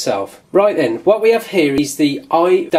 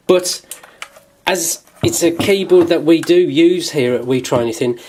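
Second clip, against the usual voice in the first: talking while munching crisps; words round a crunchy bite; crunching chips. Real, not acted. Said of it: "sorry about the crumbs".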